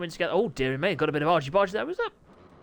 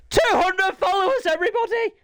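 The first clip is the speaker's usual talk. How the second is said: loud, high celebration to the audience; excited shout; 13 semitones higher, 7 dB louder than usual. Real, not acted. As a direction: announce it like a party. Celebrating follower milestone.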